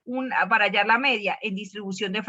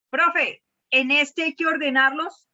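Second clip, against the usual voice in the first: lightly voiced student, higher pitch; imitated student question; 4 semitones higher, 4 dB louder, slower than usual. Teacher playing a student asking "Profe", lightly put-on questioning voice. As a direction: ask it higher, like a pupil.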